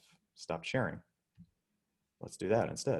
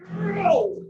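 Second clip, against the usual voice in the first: sudden high, loud cry as the arms give out; strained cry; 11 dB louder than usual. Real, not acted. Teacher failing the arm-hold demo, high loud strained cry. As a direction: yelp as the strength fails.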